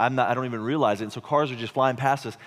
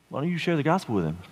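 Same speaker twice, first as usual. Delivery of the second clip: offhand suggestion to a spouse; evenly stressed, easy suggestion; casual nudge; faster than usual. Retold or imitated. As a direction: toss it out as a gentle prod. Nudging his wife to do it.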